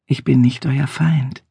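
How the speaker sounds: slow, steady and soothing; calm stranger. Acted. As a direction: answer the angry man without heat. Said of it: "entgegnete der Fremde ruhig".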